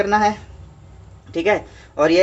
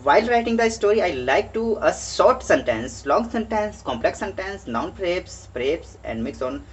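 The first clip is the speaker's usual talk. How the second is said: slow worksheet reading; much slower than usual. Acted. Teacher reading the English worksheet to students, slow and deliberate. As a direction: slowly read each prompt word aloud for the class.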